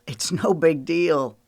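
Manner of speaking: slow, easygoing reassurance; calming things down after a nicked ear, easily. A narrator's reading. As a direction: shrug it off gently. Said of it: "Holden said easily".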